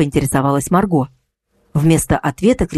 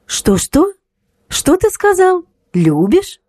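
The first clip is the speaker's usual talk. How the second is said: high sarcastic echo of his words; mock his declaration of love; 13 semitones higher, slower than usual. A narrator's reading. Kristina mocking her ex's love, sarcastic. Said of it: "переспросила Кристина саркастичным тоном".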